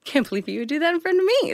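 fast upset. Retold or imitated. Retold upset scolding.

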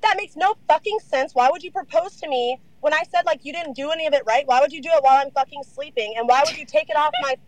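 replaying the fight, voice climbing high; retold angry rant. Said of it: "And I was like".

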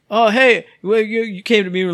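high, loud mock Eric greeting; Eric impression. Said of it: "every time I did the Eric impression".

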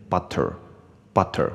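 BUTTER with a clear T and a strong R; student's mixed butter. Shown as a demonstration. Teacher showing how students say it, mixed pronunciation. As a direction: say BUTTER half British, half American, T and R both sounded. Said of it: "我问学生，他们都会念".

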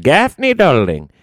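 put-on high-pitched old country codger; old Southern small-town mechanic reassuring a customer; Old Man Gaffney. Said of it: "Old Man Gaffney".

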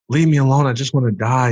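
high, loud plea to be left; retold outburst. Retelling his plea to grandmother.

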